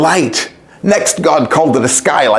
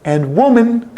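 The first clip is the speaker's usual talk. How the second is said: fond calling; 7 semitones higher, much slower than usual. A narrator's reading. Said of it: "calling the names of his very best friends".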